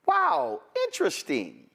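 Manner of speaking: high, overdone fake amazement; sarcastic pretend awe; mock wow. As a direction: gush it sarcastically. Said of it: "We were like".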